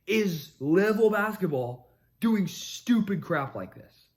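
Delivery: loud rant. Real, not acted. Loud ranting build.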